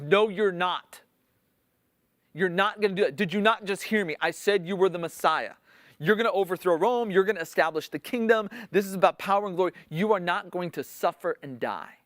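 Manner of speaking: a hint of Peter's violent scolding; mock angry protest. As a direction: push back at him like a friend who refuses to hear it. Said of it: "how Peter's violently yelling at him".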